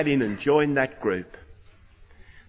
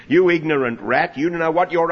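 louder, blunt mock insult; Australian-style insult; 5 dB louder than usual. Preacher voicing the Pharisees' scorn, loud and blunt. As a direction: spit out the insult Aussie style. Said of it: "that's very Australian".

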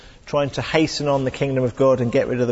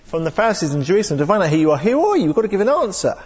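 rising, louder exasperated demand; exasperated questioners; 4 semitones higher, 3 dB louder, faster than usual. Acted. Priests from Jerusalem pressing John, exasperated. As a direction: push hard for an answer, fed up. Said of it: "They get a little bit exasperated".

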